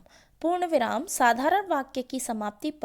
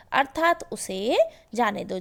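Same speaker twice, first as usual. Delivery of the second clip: normal talking voice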